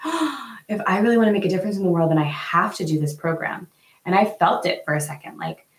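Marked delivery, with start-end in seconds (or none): 0.1-3.7 gasping, rushed inner voice; mock urgent panic. A woman pressured by a sales pitch, panicking fast. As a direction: rattle off the panicked thought fast. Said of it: "you're like".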